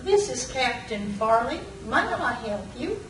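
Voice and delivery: put-on soft Southern accent, gently polite; a light hint of a sweet Southern lady. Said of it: "this sweet southern voice".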